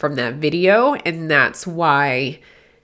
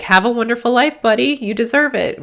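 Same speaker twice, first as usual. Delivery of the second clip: high, excited send-off; happy for the dog; 7 semitones higher than usual. Acted. Shelter worker sending a dog to its new owner, happy and excited. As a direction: cheer a buddy on in a higher voice. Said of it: "this very excited human that's happy for them".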